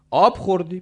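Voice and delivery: high, loud worried check; anxious calling. Acted. Neighbour checking on the old man, anxious calling. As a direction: call the question up to him.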